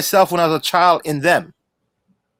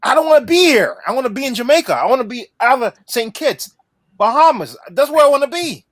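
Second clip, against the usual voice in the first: passionate; 3 semitones higher than usual. Real, not acted. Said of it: "I'm passionate right now".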